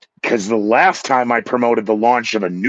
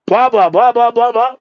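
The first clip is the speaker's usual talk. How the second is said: high, louder cheesy DJ patter; mock DJ voice; 12 semitones higher, 5 dB louder than usual. Mocking how DJs open the mic, high and louder. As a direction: ham up a generic radio jock. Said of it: "D Js always have their".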